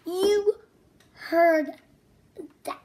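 loud, word by word; emphatic. Acted. Loud emphatic repeat, telling children to listen. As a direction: stress each word for the kids.

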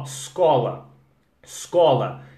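estudar, escola starting straight on S, said slowly. Shown as a demonstration. Teacher drilling students to say escola as scola. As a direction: drop the E, hit the S. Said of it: "mas ó".

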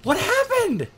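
high, loud, laughing through the shock; shaken laughing. Real, not acted. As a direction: still rattled, giggling. Startled after loud noise.

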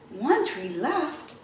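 slow wondering "One tree left?"; surprised question. Acted. Teacher echoing the line to kids, wondering question. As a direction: ask it as if amazed.

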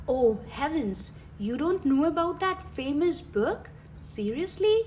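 imitating a shocked know-it-all, rising high; mock astonishment. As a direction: act scandalized that they haven't heard. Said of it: "their reaction would be".

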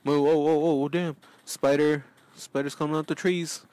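panicked alarm at the spider; startled alarm. Real, not acted.

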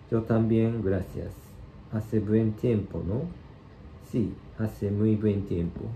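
clear, careful textbook dialogue read-out; model reading for learners. Shown as a demonstration. Teacher reading the Spanish dialogue to learners, careful and clear. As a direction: read each line slowly so students can follow.

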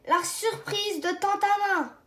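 high, thrilled exclamation; delighted he got the surprise; excited cry. Acted. Boy receives aunt's envelope, excited cry. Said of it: "Crie Caillou".

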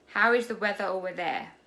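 quick, run-together English question; fast. Shown as a demonstration. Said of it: "บุ๋มจะพูดทุกประโยคเลยแบบเร็วๆ". (พูดเร็วๆ รวดเดียว)

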